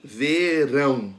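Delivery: verão slowly, split into ve and a strong rão; slow, deliberate verão with rão stressed. Shown as a demonstration. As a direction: stretch out verão, leaning on rão. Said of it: "Qual é a sílaba pronunciada com mais força?".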